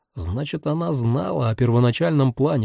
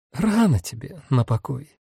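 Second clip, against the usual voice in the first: almost friendly; 5 dB quieter than usual. Acted. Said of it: "почти по-дружески".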